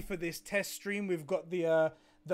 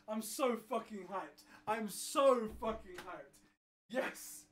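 softer, intense, under the breath; hushed hype; 8 dB quieter than usual. Real, not acted. Streamer to himself after the news, hushed and intense. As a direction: hold the excitement in, almost breathed.

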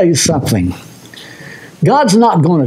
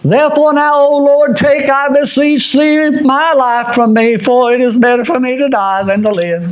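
scripture reading; 8 semitones higher than usual. Acted. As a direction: intone the verse like a plea. Reads scripture aloud.

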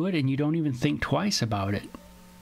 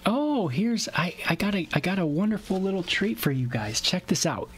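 real excitement, pitched higher; delighted surprise; 6 semitones higher than usual. Real, not acted. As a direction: share an unexpected treat with the audience. Pet wanders in, shown to audience.

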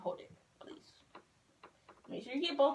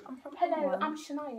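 higher, playful British accent; 4 semitones higher than usual. Shown as a demonstration. Showing a friend how to sound, playful British accent. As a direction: demonstrate a mock British accent. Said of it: "That's what you gotta sound like".

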